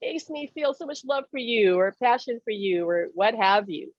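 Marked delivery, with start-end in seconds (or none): 0.0-2.9 higher, overwrought gush about a song, lightly played; hammed-up swooning over a love song; mock teary sentimental gush; gushing emotionally. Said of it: "him getting all emotional and saying".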